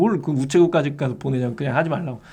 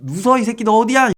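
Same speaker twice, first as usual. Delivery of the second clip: angry threat; 8 semitones higher, 6 dB louder than usual. Retold or imitated. Angry buyer threatening seller.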